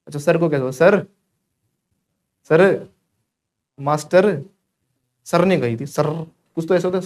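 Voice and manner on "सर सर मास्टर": सर and मास्टर with a clearly tapped final r; wrong sounded r. Shown as a demonstration. Teacher mimicking how students say it, sounded r. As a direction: say सर, मास्टर ending in a firm r. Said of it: "teacher कहते हो ना".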